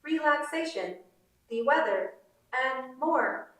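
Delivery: Navajo mom playing the assistant, delighted; Navajo mother accent. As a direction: slip from assistant talk into excited Navajo mom. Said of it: "a Navajo woman's accent".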